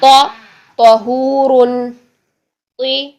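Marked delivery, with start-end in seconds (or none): 0.8-1.9 तहूरुन very slow, the त heavy and full-mouthed. Shown as a demonstration. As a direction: stretch तहूरुन with a thick heavy त. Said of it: "मुंह भर के ही अदा करेंगे". (तहूरुन को मुंह भर के आहिस्ता)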